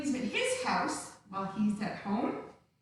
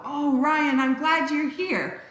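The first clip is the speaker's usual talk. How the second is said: excited greeting; 6 dB louder than usual. Real, not acted. Greeting child who joined.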